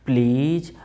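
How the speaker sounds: "प्लीज" drawn out with a final lift; coaxing please. Shown as a demonstration. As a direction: stretch "प्लीज" into a polite plea, rising at the end. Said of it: "last में कैसे बोलेगा?". ("प्लीज" को खींचकर, मनाते हुए)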